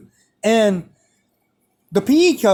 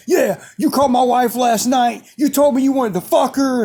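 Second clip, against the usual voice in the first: higher-pitched imitation of accusing coach; pissed off; 4 semitones higher than usual. Coach accusing student about his wife, mock-angry and heated. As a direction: hurl a retold jealous accusation. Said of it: "I know he's pissed off".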